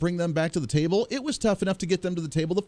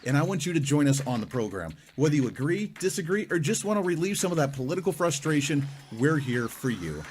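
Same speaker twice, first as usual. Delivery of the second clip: promo read. Acted. Recorded promo read for the show.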